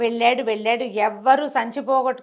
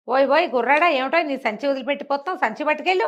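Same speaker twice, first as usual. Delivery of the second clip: raised, higher call across the yard; 5 semitones higher than usual. Acted. Choultry keeper calling after the boy, raised higher call. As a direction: hail the boy back before he leaves.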